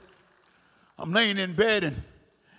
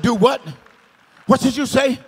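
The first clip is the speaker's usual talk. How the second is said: louder, astonished double take; acted disbelief, voice jumping louder; startled question; 4 semitones higher, 5 dB louder than usual. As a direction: retell a sudden shocked query. Startled on hearing the name.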